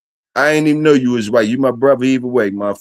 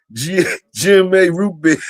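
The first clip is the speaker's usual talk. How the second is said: laughing shout; 4 semitones higher than usual. Real, not acted. Laughing at chat joke.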